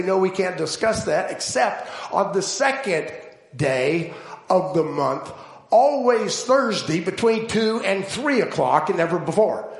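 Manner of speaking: mock the governor putting everyone off with his appointment book; lazy bureaucrat. Preacher voicing Governor Gumpus stalling visitors, a hint of lazy bureaucrat. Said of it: "an overwhelmingly lazy bureaucrat".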